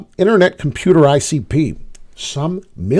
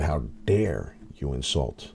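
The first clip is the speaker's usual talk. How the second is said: mock indignation; 12 semitones lower, 9 dB quieter, slower than usual. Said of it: "I said".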